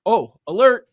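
ordinary delivery

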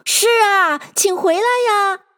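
high imploring call; joining the call. A narrator's reading. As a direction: chime in, calling someone to return. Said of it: "别人一齐声道".

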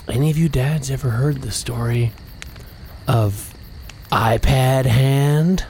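slow spooky campfire storyteller; horror host. Acted. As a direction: lean in and draw it out. Campfire ghost story telling.

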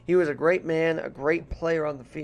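a light, homemade Irish brogue held all through. Pretend. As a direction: chat to listeners in a put-on Irish brogue, lightly done. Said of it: "if you like the Irish that I'm trying to do here".

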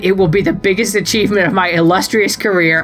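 steady storytelling read over music; dramatic reading of a fan story; story narration. Acted. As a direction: read the fanfic like a bedtime tale. Reads own wrestling fanfic aloud.

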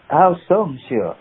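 lightly voiced Frenchman, inquiring; old French man. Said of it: "he was an old French guy".

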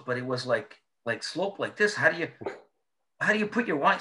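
incredulous friend. Retold or imitated. Russ voiced, incredulous.

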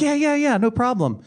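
mock bro agreement. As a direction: toss it off like a careless teen. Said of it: "And they're like".

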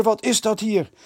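high, loud outraged repeat; repeated indignant call. A narrator's reading. The headmaster repeats his demand to the boys, indignant. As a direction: demand it again, insisting. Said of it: "riep hij al van de trap".

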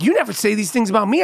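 quick retold reproach; lightly voiced wife, hurried; wife's complaint. Wife to husband at the wedding, mildly reproachful. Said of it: "she was like".

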